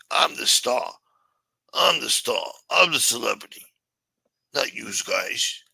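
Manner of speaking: hammed-up star boast; mock bragging. Streamer boasting to chat that he is the star. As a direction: puff up like a celebrity.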